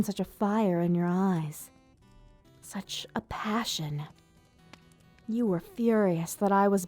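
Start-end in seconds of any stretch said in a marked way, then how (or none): 2.6-4.0 slow, soft whisper; hushed awe. Acted. Ruler recalling little mouse's fiery defence, awed whisper. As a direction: whisper it slowly, marvelling.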